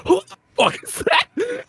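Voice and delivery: high, laughing disbelief at a stranger; shocked outburst. Retold or imitated. Gamer finding a random woman on her ship, shocked laughing outburst. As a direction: blurt it out, half laughing in shock.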